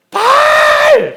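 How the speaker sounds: long, stretched, very high shout; frantic shout. Acted. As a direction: wail the name with all your lungs. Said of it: "막 이렇게 막".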